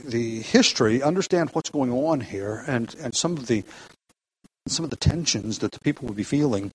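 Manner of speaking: subdued, unhurried prayer before a Bible study; spoken prayer. Real, not acted. Leads the group in prayer.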